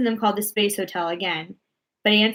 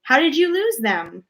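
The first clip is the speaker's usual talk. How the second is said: mild shout; 6 semitones higher, 3 dB louder than usual. Acted. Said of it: "shouted the president".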